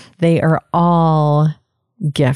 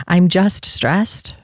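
dismissive repeat; 2 semitones higher, slower than usual. Shown as a demonstration.

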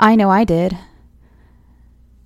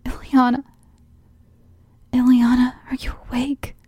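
calling out; 6 semitones higher than usual. A narrator's reading. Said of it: "I called out".

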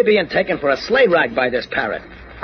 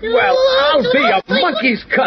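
high, drawn-out amazement; astonished. Acted. Candy sees the lost parrot appear, astonished cry. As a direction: exclaim it in stunned disbelief.

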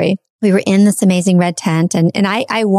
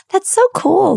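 much higher, delighted exclamation; excited; 12 semitones higher than usual. Retold or imitated. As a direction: gush like you just discovered it. Retold excited reaction to drums.

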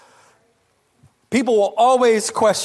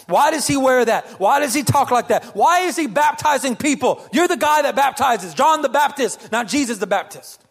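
tattletale disciples; 3 semitones higher than usual. Retold or imitated. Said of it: "John has some tattletales in his group".

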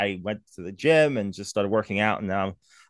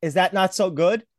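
naive worried question; 7 semitones higher than usual. Retold or imitated. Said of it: "I'm like".

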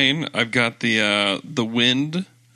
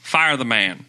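mock Southern hot-take rant; Southern accent. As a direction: lay down the verdict in a put-on Southern accent. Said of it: "in a Southern accent".

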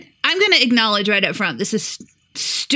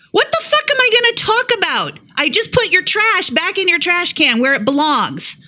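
pitched up high in disbelief, retelling her own comeback; incredulous, higher pitched retort; exasperated retort; 8 semitones higher than usual. Retold or imitated. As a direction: throw the line back as if it's obvious. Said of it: "And I go".

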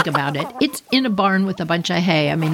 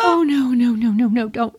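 retold panic; 4 semitones higher than usual. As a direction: plead with the chicken in alarm. Panic over dying chicken.

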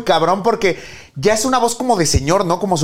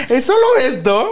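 laughing disappointment; 4 semitones higher than usual. Retold or imitated. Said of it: "Buscas si viene un cupón".

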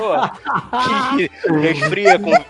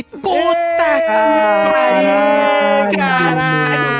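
angry outburst; 2 semitones higher, much slower than usual. Retold or imitated.

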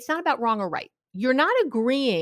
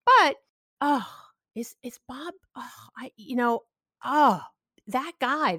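matching emotion, calm. Shown as a demonstration. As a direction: soothe with hushed sympathy. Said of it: "you match emotion, but not tone".

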